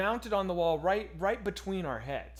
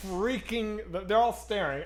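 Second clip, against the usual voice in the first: louder, higher panicked telling; excited retelling; 5 semitones higher, 4 dB louder than usual. Real, not acted. Telling friend about alarm, rising panicked excitement. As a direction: relive the blaring alarm chaos.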